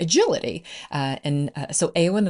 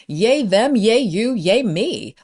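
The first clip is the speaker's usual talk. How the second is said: higher, louder string of cheers; celebratory cheering; 4 semitones higher, 5 dB louder, slower than usual. Shown as a demonstration. Coach urging listeners to celebrate, cheering. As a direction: cheer each one on brightly.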